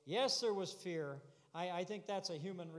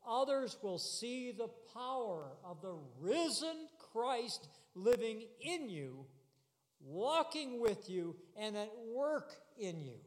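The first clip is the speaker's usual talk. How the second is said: measured, forceful preacher's cadence; emphatic preaching; 4 semitones higher than usual. Real, not acted. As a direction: stretch each phrase out for the congregation.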